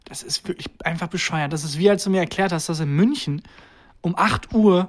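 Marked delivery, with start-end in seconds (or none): 0.1-1.8 breathy whispered aside; whispering. Real, not acted. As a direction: whisper it, exasperated. Exasperated aside about Karneval shops.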